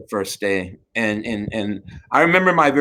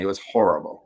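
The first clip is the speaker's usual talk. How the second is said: laughing; 6 semitones lower, 4 dB quieter than usual. Real, not acted. Recalls bad sexual encounter, laughing.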